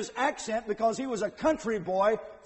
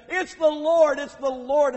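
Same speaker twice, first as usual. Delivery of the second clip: excited cry; 6 semitones higher, 8 dB louder than usual. Retold or imitated. Peter recognizes Jesus, excited cry.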